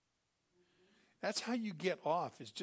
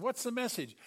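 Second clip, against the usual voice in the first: higher, louder question; eager demand; 8 semitones higher, 7 dB louder than usual. Retold or imitated. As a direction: ask it urgently. King asks the messenger.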